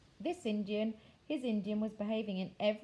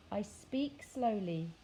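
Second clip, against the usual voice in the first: grunted; slower than usual. Acted. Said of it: "grunted the miniature Indian".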